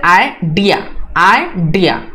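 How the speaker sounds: आइडिया split as "ai-DIA", said twice; stress on dia. Shown as a demonstration. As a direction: lean on the डिया of आइडिया. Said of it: "डी है इसको ज्यादा high sound में".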